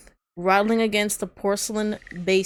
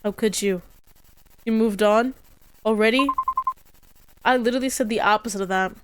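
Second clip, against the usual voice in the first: accusing; 3 dB louder than usual. Acted. Ghost lover accuses, a quarrel.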